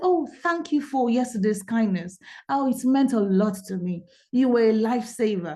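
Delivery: ordinary delivery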